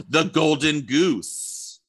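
light up as it comes back to you; a gasp of surprise, then eager recall; sudden realisation. Real, not acted. Suddenly remembers the golden goose.

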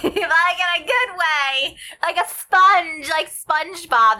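high, slow, giggling through it; laughing. Real, not acted. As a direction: draw it out while laughing. Giggly correction of bad analogy.

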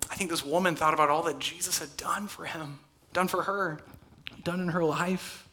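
unvoiced intimate whisper. Real, not acted. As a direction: lean in and whisper it. Whispered reflection on woman.

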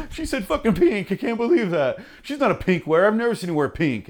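high, loud, laughing gossip voice; mock excited chatter, high and laughing; giddy newsroom. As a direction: squeal with laughter like a starstruck crowd. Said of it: "everyone in the room's like".

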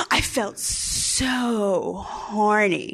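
slow, drawn-out mock yearning on "so"; exaggerated longing. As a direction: stretch it out, dripping with longing. Reads diary with exaggerated longing.

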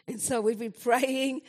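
laughs right in the middle of the word; laughing. Real, not acted. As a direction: chuckle while saying praying. Laughing at their loud praying.

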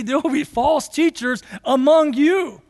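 lightly voiced apostle, earnest and pressing; voicing Peter. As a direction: deliver it as Peter's own warning. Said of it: "Imagine Peter saying that".

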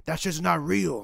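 slow scoffing brush-off; dismissive. Retold or imitated. Man refusing a mask, slow scoffing dismissal. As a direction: wave him off, drawn out. People refusing masks, quoted.

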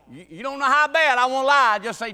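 loud, high, through laughter; real laughing outburst; laughing confession. Real, not acted. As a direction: blurt it out, cracking up. Repeats joking confession, laughing.

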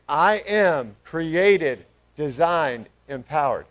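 loud, very slow, word by word; out-loud group declaration. Real, not acted. Preacher leads the church in saying it together, loud drawn-out declaration. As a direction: declare it boldly for a crowd to join. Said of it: "say this out loud together".

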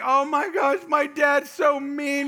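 high, drawn-out wailing complaint; hammed-up kid's whine, stretched and loud; mock upset child. Eight-year-old in grandma's arms, imitated wail.

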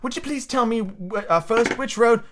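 put-on tentative, polite storybook girl; polite Alice. A narrator's reading. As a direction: ask politely in a lifted voice. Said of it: "as politely as she could".

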